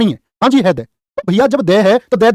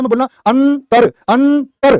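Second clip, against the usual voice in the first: teacher drilling अंतर to the class; stressing अंतर; 5 semitones higher, much slower than usual. Shown as a demonstration. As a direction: hit अंतर hard, twice, with the r ringing. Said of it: "ते के बाद में ही तो जरूरत है".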